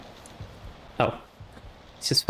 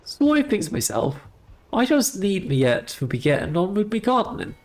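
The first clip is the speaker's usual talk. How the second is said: ghostly gardener voice. Acted. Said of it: "the ghostly voice of a headless gardener".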